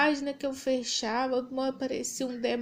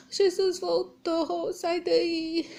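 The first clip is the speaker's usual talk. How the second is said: begging through tears, voice catching; tearful plea; 4 semitones higher, much slower than usual. Retold or imitated. Aunt begging her niece to leave, tearful. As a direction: plead with her to get up, near crying.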